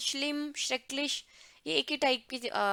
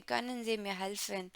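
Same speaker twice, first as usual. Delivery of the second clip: slow softer repeat; 3 dB quieter, much slower than usual. Shown as a demonstration. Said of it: "इसको आप अच्छे से पढ़ सकते हैं".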